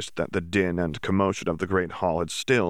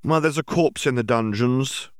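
higher, lightly voiced witch Auror; lightly acted announcement, pitched up; Auror witch announcing; 6 semitones higher, 4 dB louder than usual. A narrator's reading. Wiry Auror witch reporting a corpse, announcing.

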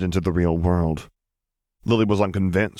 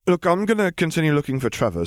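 put-on higher, awkward boy's excuse; boy making an excuse to leave, higher; shy boy Neville; 10 semitones higher than usual. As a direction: mumble an escape from the talk. Neville voiced.

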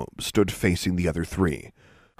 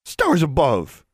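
high, slow, drawn-out exclamation; shocked exclamation; 9 semitones higher, 4 dB louder, slower than usual. A narrator's reading. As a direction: exclaim it in drawling dismay. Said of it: "exclaimed the new girl".

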